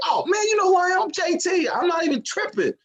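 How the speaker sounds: high, showy bragging, slowing at the end; cocky boast. Retold or imitated. Comic bragging to the store clerk, high and showy. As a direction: brag like a big shot. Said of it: "I was like".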